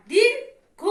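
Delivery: "দীর্ঘ" drawn out very slowly; long-vowel demo. Shown as a demonstration. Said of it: "এটা আলাদা উচ্চারণ হবে".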